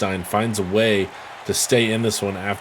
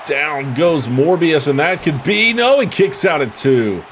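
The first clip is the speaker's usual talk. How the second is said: excited higher play-by-play call; wrestling commentator; 4 semitones higher, 4 dB louder than usual. Real, not acted. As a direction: call the near fall, rising up. Calling a pin attempt.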